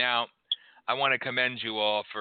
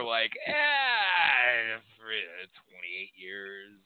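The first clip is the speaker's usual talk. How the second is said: mock crying; much slower than usual. Mock tearful slow song moment.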